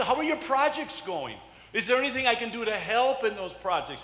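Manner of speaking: caring husband questions. Shown as a demonstration. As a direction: ask with real interest. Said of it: "write that one down".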